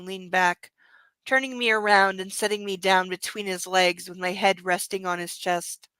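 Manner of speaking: reading a romance novel aloud; calm audiobook-style reading; story reading. Acted. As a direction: read the book passage steadily. Reads novel aloud to audience.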